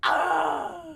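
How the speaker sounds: loud, high-pitched "ah"; high squealed reaction; high "ah" cry. Real, not acted. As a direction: let out a sudden high cry. Excited reaction in game.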